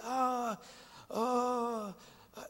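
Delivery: mock drawn-out worship ah sounds; a hint of the singer's wordless ah; imitating wordless vocalizing. Preacher mimics a singer's wordless sounds at a concert, lightly imitated. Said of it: "movía su cabeza y levantaba sus manos y decía".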